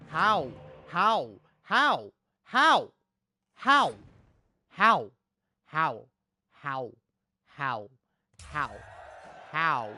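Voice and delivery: real rage climbing to a full yell; building angry shout. Real, not acted. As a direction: escalate each how until you are shouting. Furious gamer ranting at game.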